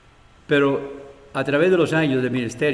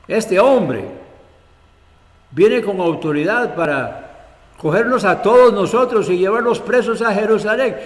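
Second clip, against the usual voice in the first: higher, louder disbelieving protest with a laugh; alarmed protest; 5 semitones higher, 4 dB louder than usual. Acted. Ananias objecting to the Lord, alarmed and incredulous.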